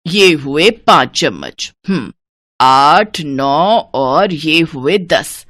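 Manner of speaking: lightly voiced penny-pincher, firm; stingy mother-in-law, doling out. Mother-in-law counting out sugar for daughter-in-law, stingy and firm. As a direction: count carefully, then lay down the rule.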